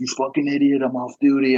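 put-on freaking-out yell, high and furious. Retelling how a cabbie freaked out at them: imitating a cabbie yelling. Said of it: "freaking out on me".

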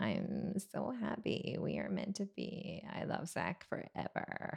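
slow, breathy, whispery drawl with heavy vocal fry. Showing how to find vocal fry: Bliss impression. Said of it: "Just do a Bliss impression".

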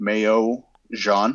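put-on French accent, French-style pronunciation. Asked to pronounce the gallery's title in their best french accent. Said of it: "in your best French accent".

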